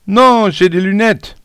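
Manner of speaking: very high, loud protest; panicked cry. A narrator's reading. Bespectacled pupil threatened by a classmate, crying out. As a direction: shriek in protest like a threatened schoolboy. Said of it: "Agnan qui a crié".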